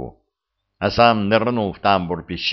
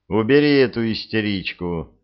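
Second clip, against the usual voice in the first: contemptuous. Acted. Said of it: "презрительно бросил Беркут".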